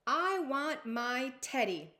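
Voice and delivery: loud, slow, sassy demand. Acted. Princess demanding her teddy, loud and sassy. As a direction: draw the demand out haughtily. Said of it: "She is sassy little girl".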